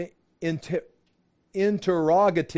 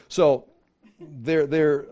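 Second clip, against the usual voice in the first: usual speaking voice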